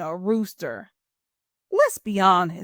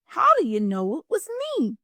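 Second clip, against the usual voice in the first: fast, higher, whiny groan; groaning turkey; 7 semitones higher, faster than usual. Acted. Turkey to Pig, fast higher whiny groan. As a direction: groan it, caught out again. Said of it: "groaned Turkey".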